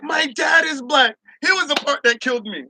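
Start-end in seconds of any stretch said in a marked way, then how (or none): 0.0-1.2 high, cracking mock whine; mock whiny white girl. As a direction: whine it like she's offended. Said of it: "So she's like".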